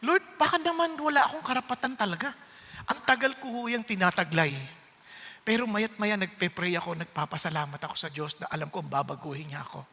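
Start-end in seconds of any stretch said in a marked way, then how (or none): 0.1-4.5 soft, hushed question to the Lord; soft prayerful doubt. Retold or imitated. Pastor quietly asking the Lord if he is real, hushed. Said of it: "tinatanong ko yung sarili ko".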